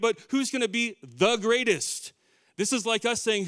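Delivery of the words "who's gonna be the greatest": "the" set apart and leaned on before "greatest"; raised pitch, punch "the greatest" as the one top spot; stress on THE greatest. Shown as a demonstration. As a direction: lean hard on "the" in "the greatest". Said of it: "not great".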